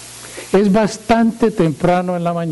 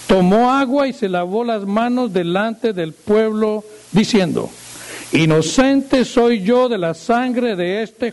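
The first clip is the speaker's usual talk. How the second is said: raised, measured reading voice; scripture reading; 3 semitones higher than usual. Acted. Preacher reading Matthew to the congregation, solemn reading. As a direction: read the passage aloud, solemnly.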